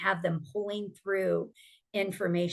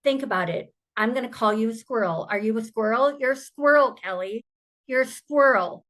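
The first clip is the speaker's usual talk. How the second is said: imitating a friend, teasing, rising to loud and higher; a survivor friend retold, taunting Kelly louder and higher; building mock taunt; 3 semitones higher, 4 dB louder than usual. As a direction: start easy, then push each "squirrel" louder and higher. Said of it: "she goes".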